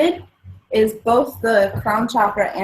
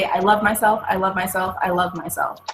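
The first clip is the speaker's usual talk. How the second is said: gentle mantra; 3 dB quieter than usual. Shown as a demonstration. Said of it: "I say".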